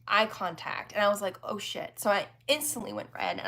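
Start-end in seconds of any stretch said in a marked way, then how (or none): 1.4-2.0 hushed, mortified whisper; whispered oh shit. Retold or imitated. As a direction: breathe it out, caught staring. Eye contact with Eastwood.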